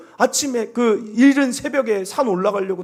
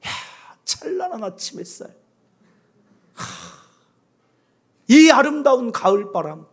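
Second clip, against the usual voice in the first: admiring morning. Shown as a demonstration. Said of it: "감탄하세요".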